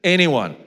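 Anyone said loud, high and falling; stress on anyone. Shown as a demonstration. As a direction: lean hard on Anyone. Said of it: "it's pretty wide".

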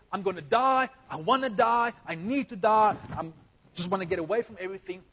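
despairing Elijah. Acted. Preacher voicing despairing Elijah.

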